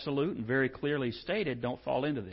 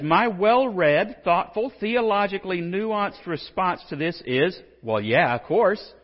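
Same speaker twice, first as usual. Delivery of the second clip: slow and louder, mock-grand, then a casual "well, yeah"; wry self-mocking scholarly build-up; mock-pompous buildup; 4 semitones higher, 8 dB louder, slower than usual. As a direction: puff it up, then deflate it. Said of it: "He says".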